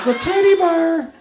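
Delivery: put-on Wisconsin accent. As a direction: say bar like bear, Wisconsin style. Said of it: "He goes".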